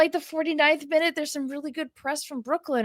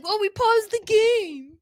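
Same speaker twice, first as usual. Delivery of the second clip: higher, slow, drawn-out smug reply; mock smug; 7 semitones higher, slower than usual. Liz imitating co-hosts explaining the paused game, mock smug and slow. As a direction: lay it on as if it's obvious. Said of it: "they're like".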